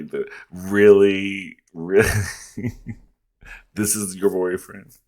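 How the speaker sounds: slow stretched disbelief; incredulous. Real, not acted. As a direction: draw out "really" in disbelief. Disbelief at the crowd.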